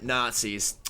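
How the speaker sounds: casual, low-pitched deadpan; slow, under-delivered grumble, dropped in pitch; Indy. Acted. Quoting a favourite Indy line to co-host, casual deadpan. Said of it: "just so just casual about it".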